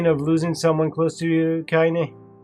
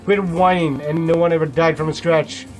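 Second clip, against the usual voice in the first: put-on louder, dismissive old woman's scold; gruff scolding; 3 semitones higher, 5 dB louder than usual. A narrator's reading. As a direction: brush his pain off harshly. Grandmother scolding bully.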